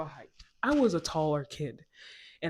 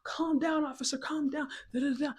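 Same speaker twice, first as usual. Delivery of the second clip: mock pleading dad, higher; imitating dad; 10 semitones higher than usual. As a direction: play the father begging the cops, pitched up. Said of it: "My dad's like".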